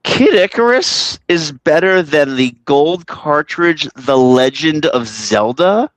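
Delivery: slow, drawn-out disbelief; incredulous. Real, not acted. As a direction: stretch it out in shock. Disbelief at a hot take.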